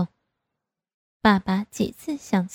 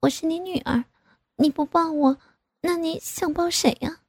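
higher-pitched voice, arguing back; protesting daughter; 8 semitones higher than usual. A narrator's reading. Grown daughter retorting to her father, protesting.

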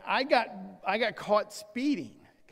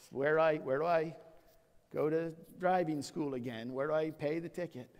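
mock sheepish mumble; 7 semitones lower, 7 dB quieter than usual. Mock sheepish self-talk, laughing.

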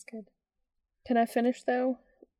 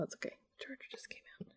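soft whispered reassurance; 5 semitones higher, 15 dB quieter, much faster than usual. Real, not acted. Explaining the charger to the kid, whispered. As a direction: whisper it's fine.

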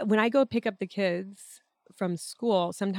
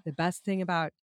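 hoarse voice from a cold; raspy, like she has a cold. Real, not acted. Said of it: "you really rock a good raspy voice".

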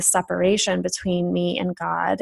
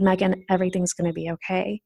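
softer, quicker gentle reassurance; soft, certain comfort in her own voice; reassuring inner voice; 5 dB quieter, faster than usual. Retold or imitated. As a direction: tell yourself it's all right, gently. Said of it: "such a certain, comforting, reassuring, loving voice".

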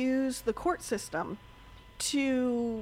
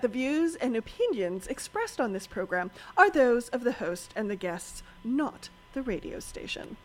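announcer voice. Shown as a demonstration. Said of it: "That was my announcer voice".

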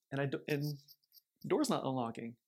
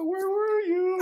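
loud, high desperate shout; 8 dB louder, much slower than usual. Retold or imitated. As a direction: yell it in relief and fright. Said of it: "I go".

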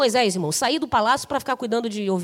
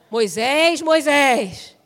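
scolding double call; 3 dB louder, much slower than usual. Retold or imitated. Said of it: "eu fico pensando que vem uma bronca".

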